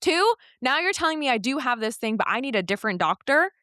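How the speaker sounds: mildly exasperated, lifting on the counts; retold irritation, punching each point; aggravated. Patient recalling her gripe at the doctor, aggravated. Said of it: "at first I was really aggravated".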